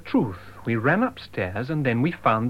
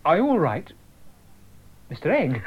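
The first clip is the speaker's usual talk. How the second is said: anxious call; 5 semitones higher than usual. Acted. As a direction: call out to him in alarm. Calling to the wounded man.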